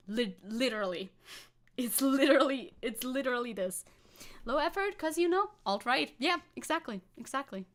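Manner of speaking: imitating a Cockney voice; Cockney accent. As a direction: do a Cockney impression of him. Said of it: "Your Cockney accent is so on point".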